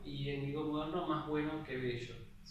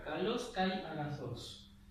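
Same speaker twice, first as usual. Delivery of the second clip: slow, careful Greek phrase with marked accents; teacher modelling the pitch accent; demonstrated Greek accent; slower than usual. Shown as a demonstration. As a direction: spell out each accent slowly. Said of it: "Fíjense cómo acentúa acá".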